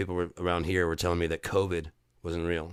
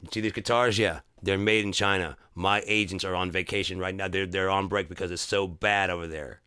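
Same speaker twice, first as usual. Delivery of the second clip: exasperated rant. Retold or imitated. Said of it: "I'm like".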